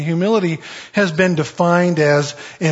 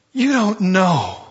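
retold heartfelt line; 3 semitones higher, slower than usual. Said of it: "She goes".

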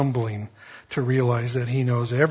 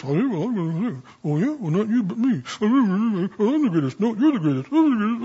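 put-on disciples squabbling in a raised, childish voice; higher pitched playground squabble; mock bickering disciples; 6 semitones higher than usual. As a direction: play the boastful disciples one-upping each other.

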